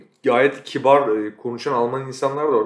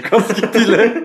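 laughing; 10 semitones higher, 8 dB louder, much slower than usual. Real, not acted. Joking about father's cap.

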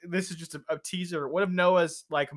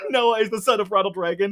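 loud shout through laughter; laughing shout of the joke; 3 semitones higher, 5 dB louder than usual. Real, not acted. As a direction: yell it, laughing.

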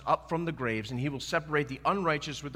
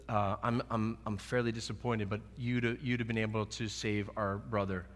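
calm and collected; 3 semitones lower, 4 dB quieter than usual. Retold or imitated. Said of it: "Martha said it calm and coolly and collected".

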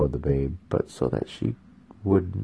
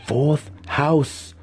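spat; 8 semitones higher than usual. A narrator's reading. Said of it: "Alton spat".

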